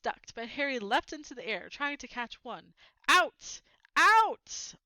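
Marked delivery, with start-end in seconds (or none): 3.1-4.7 loud, high bellowing; furious shout. Acted. Uncle Vernon throwing Harry into the hall, yelling. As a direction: roar it, rising with each out.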